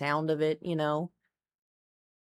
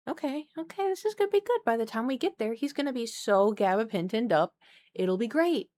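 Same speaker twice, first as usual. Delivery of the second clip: hopeful self-talk; 3 semitones higher than usual. Retold or imitated. Hopeful self-talk, high soft voice.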